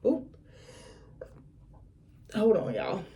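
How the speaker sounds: holding back a sneeze; about to sneeze. Real, not acted. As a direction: sneeze coming on. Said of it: "am I about to sneeze again".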